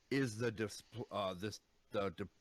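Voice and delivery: talking while chewing food; words round a mouthful of food; mouth full. Real, not acted. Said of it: "sorry, I got food in my mouth".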